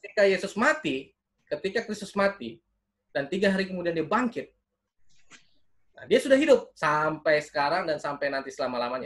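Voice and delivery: preacher's rising, punched key phrases; emphatic preaching. Acted. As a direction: proclaim it to the congregation. Proclaims the resurrection to congregation. (berkhotbah dengan penekanan kuat)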